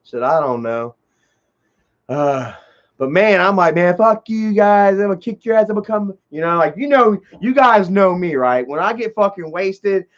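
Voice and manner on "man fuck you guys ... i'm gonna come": mock threat. Drunk threat to the guys.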